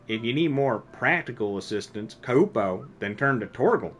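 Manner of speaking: lightly voiced boastful Moogle with a stuttered Kupo. Nectar the Moogle cheering on the hunter, light Moogle voice. Reads Moogle lines aloud.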